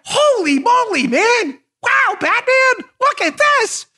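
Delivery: high, slow gee-whiz sidekick voice; mock wide-eyed investigators. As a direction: play the FBI as goofy cartoon heroes gasping. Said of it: "And they're like".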